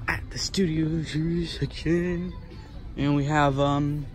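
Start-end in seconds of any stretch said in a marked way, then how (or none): 0.1-2.3 whisper. Real, not acted. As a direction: drop to a hushed whisper. Whispering in store aisle.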